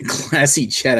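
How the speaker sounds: classy chat, slow and drawn out, leaning on classy; mocking echo. Shown as a demonstration. Laughing as he echoes the co-host, slow and mocking. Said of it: "this was a classy chat".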